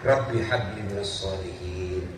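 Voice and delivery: put-on low, soft murmured prayer over the child. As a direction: pray it gently while spooning food. Praying after school hug.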